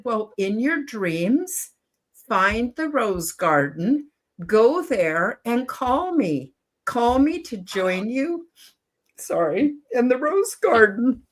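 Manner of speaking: slow, tearful telling with long stretched words; choked up. Real, not acted. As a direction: push gently through the lump in your throat. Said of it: "it always chokes me up".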